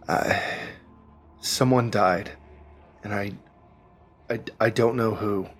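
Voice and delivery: halting and lost, long pauses; grieving, confused Moth. Acted. Trapped woman answering when she is, haltingly confused. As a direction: grope for the words, stuck and faltering.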